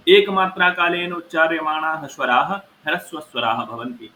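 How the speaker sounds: chanted Sanskrit rule, measured and formal; sutra recitation. Shown as a demonstration. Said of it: "Sanskrit sutra recitation". (सूत्र पाठ का स्वर)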